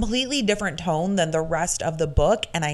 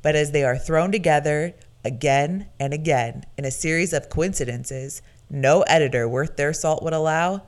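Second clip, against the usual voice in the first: movie announcer voice. Shown as a demonstration. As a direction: sell it like a film trailer. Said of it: "Where the fuck has this voice been".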